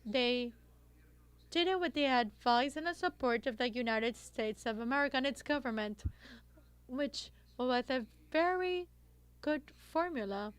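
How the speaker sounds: muffled by a face mask; through a face mask. Real, not acted. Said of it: "I'll remove my face mask to ensure that you're able".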